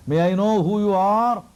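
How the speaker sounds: voicing a sage who asks who the child is; Markandeya asking. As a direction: ask timidly up high like a wary sage. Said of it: "came little nearer and asked".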